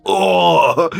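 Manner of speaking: loud, high "oh" of impact; imitated pained groan. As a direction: mimic someone kicked in the chest. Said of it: "all I hear is".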